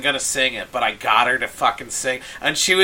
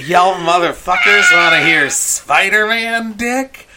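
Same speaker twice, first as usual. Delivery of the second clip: mock shout; 5 semitones higher, 8 dB louder than usual. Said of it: "She's like".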